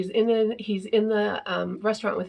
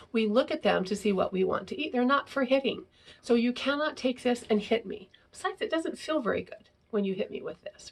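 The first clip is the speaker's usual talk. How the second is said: gentle teaching; 3 semitones higher than usual. Shown as a demonstration. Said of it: "to be able to say".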